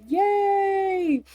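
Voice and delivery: high, bright yay; excited cheer. Real, not acted. Cheering the tarot channel.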